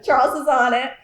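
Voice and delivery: laughing through the words. Real, not acted. Staff member teasing Charles about stormwater work, laughing. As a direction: tease him while still laughing. Teasing after colleague's quip.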